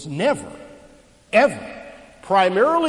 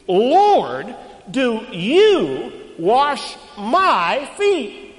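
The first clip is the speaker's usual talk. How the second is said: Peter protesting; 6 semitones higher, 6 dB louder, much slower than usual. Retold or imitated.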